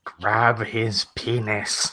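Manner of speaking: slow, drawn-out mock command; jokey goading. Player heckling about the naked man, jokey goading. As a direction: egg them on, stretching each word.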